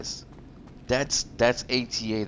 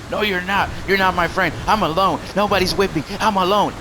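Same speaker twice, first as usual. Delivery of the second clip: high, loud mocking whine; high sulky mock protest; whiny rival; 7 semitones higher, 3 dB louder than usual. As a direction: mimic the rival crying he is alone. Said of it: "rival's reply quoted".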